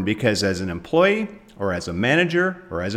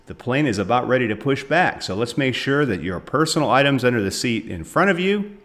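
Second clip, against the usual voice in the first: cheery airline cabin announcement; flight attendant. Pretend. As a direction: play a flight attendant before takeoff. Host plays airline pre-flight announcement.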